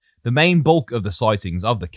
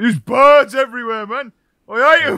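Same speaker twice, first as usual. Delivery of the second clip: very high-pitched, loud griping; 6 dB louder than usual. Retelling how the other speaker complains about seaside birds: imitating their complaint. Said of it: "but you're like".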